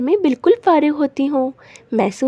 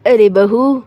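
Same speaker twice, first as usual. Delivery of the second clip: calling out; 4 semitones lower than usual. Acted. Calling daughter-in-law from inside.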